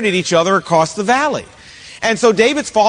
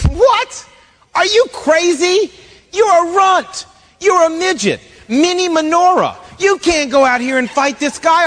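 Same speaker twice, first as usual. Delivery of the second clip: scoffing disbelief; 6 semitones higher than usual. Acted. King Saul to little David offering to fight, hammed-up disbelief. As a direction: scoff as if the offer is absurd, voice jumping up.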